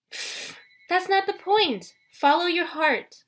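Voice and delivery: Aphrodite voiced. A narrator's reading. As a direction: purr like a doting love goddess.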